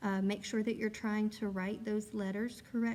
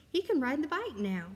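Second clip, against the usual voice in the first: much higher and louder, bursting with excitement; very excited voice; 6 semitones higher, 3 dB louder than usual. Shown as a demonstration. Teacher rereading the exclamation sentence to the class, very excited. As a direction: celebrate like he finally rode the bike. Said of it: "I'm gonna say it with a very excited voice".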